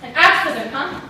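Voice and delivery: bitter sarcastic jab at the lie. Acted. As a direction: throw "An accident" back at her mockingly.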